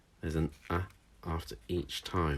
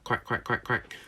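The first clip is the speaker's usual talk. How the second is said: duck quack; 4 semitones higher than usual. Shown as a demonstration. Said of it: "like a duck".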